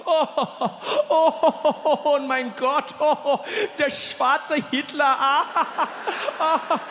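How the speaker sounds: high, cackling through the words; laughing German friend. Retold or imitated. Friend in the car mocking him, laughing hard. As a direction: wheeze with laughter between lines.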